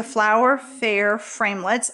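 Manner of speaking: saying a tricky name slowly and carefully; careful slow articulation. Real, not acted. Crafter naming her framelits to viewers, slowly and carefully. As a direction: take the tongue-twisting name word by word. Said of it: "I have to say that slowly".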